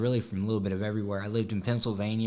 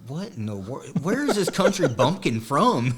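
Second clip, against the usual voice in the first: mock disbelief; 3 semitones higher, 5 dB louder than usual. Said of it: "they're like".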